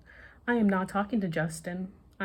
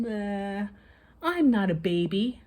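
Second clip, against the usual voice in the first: indignant retort; 3 semitones higher, 4 dB louder than usual. A narrator's reading. Amber retorts.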